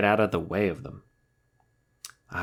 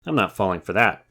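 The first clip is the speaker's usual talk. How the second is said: mild panting; 9 dB louder than usual. Acted. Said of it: "panted Wolf".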